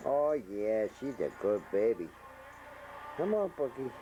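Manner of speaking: high sing-song calling to a cat; pet talk. Real, not acted. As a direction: coax the kitty in a high voice.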